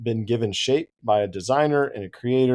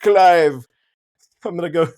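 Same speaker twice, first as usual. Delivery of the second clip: mock British accent, higher and louder, rattled off fast; a playful British accent for Tolkien ribbing his friend; 4 semitones higher, 5 dB louder than usual. Tolkien teasing Lewis about allegory, mock British accent. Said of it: "he's probably in this British accent".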